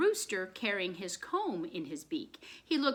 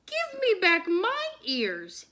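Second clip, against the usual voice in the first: demanding; 9 semitones higher, 5 dB louder, slower than usual. A narrator's reading. Bunny demands his ears back.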